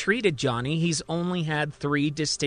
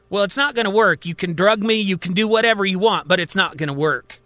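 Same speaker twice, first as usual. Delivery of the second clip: higher and louder, defiant; defensive; 4 semitones higher, 4 dB louder than usual. Acted. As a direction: refuse them, loud and rising. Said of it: "Johnny suddenly gets defensive".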